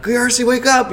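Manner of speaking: mock yell, pitched high; retold scream. Boy banging on his sleeping brother's door, retold scream. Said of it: "just screaming at him".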